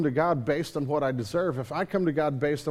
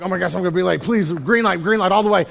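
hurried, louder begging for green lights; impatient pleading; 2 semitones higher, 8 dB louder, faster than usual. Retold or imitated. Pastor acting himself late at red lights, loud and impatient. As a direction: plead with the traffic lights in a rush. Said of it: "I'm like".

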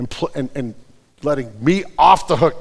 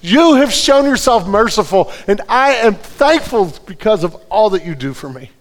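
raised, earnest prayer voice, slowing on key lines; fervent prayer; 6 semitones higher, 4 dB louder than usual. Real, not acted. Pastor praying aloud before the congregation, fervent and raised. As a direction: pray it out from the heart.

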